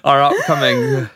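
high, drawn-out gasped words; mock gasping. Announcing poor ticket sales for summer shows, exaggerated gasping. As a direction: gasp the words out theatrically. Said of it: "what else has been making me gasp".

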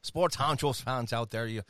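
put-on Dublin brogue, easy and chatty; Irish accent. Host telling fans of his parents from Dublin, Irish accent. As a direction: spin it out in an Irish lilt. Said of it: "talk in an Irish accent".

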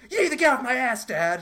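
high, loud whiny shout at dad; teenage daughter yelling at her father, high and loud; bratty teen yell. Retold or imitated. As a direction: snap at him like a furious teenager.

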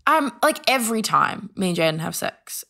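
hesitant start, falling to matter-of-fact; retold admission. Admitting it to a friend who asked why, hesitant admission.

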